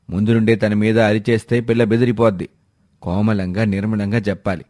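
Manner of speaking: lightly voiced husband chiding his wife; a hint of a patient, reasoning elder; reproving father-in-law. Husband defends the new daughter-in-law to his wife, mildly reproving.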